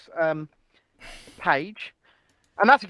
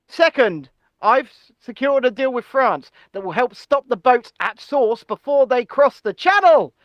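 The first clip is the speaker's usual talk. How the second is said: mock-serious politician reading out pledges; lightly put-on, emphatic statesman; Rishi Sunak; 2 semitones higher than usual. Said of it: "let me do my best Rishi impression".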